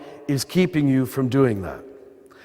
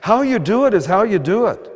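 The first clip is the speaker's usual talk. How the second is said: the same line pitched up, pressing it home; higher, insistent repeat; 6 semitones higher than usual. Shown as a demonstration. Preacher repeating his point higher for the crowd. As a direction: say it again higher, so it lands. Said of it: "I'm gonna repeat it".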